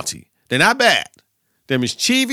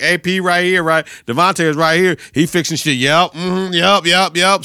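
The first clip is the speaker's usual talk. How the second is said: a higher, hyped sideline voice; voicing Davante, higher; 4 semitones higher than usual. Davante on the sideline, calling for the coach's attention, higher and hyped. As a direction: hype it up like a star receiver on camera.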